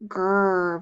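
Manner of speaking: "Grr" as the gr blend alone, held; drawn-out r in "Grr", no growl; isolated initial blend. Shown as a demonstration. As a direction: sound out "Grr" as g running into r. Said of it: "It's the initial blend".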